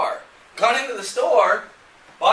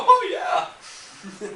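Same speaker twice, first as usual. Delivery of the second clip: mock eagerness; 9 semitones higher than usual. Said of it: "didn't just jump in and go".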